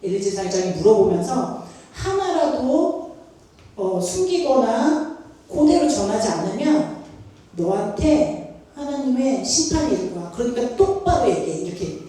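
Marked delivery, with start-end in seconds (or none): 1.9-11.6 imitating a priest's stern warning; stern demand. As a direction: press for the whole truth, word by word. Priest pressing the boy to confess.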